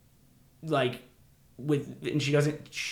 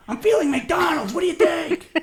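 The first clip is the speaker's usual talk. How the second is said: put-on much higher, louder breezy kid voice; squeaky casual kid; 9 dB louder than usual. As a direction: mimic him breezily suggesting food. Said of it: "He's just like".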